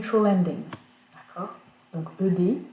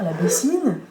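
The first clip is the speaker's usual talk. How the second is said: put-on French-accented "bassine", weight on the last syllable; French-speaker mispronunciation; 5 dB louder than usual. Teacher imitating francophone students' mistake, "bassine" in a French accent. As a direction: read it as a French word, French accent. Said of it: "les francophones ont tendance à dire".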